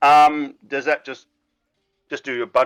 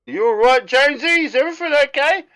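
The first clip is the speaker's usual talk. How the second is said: high, fast worried asking; concerned Sam; 13 semitones higher, 5 dB louder than usual. Acted. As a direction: check on Jonesy anxiously. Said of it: "Sam comes up to".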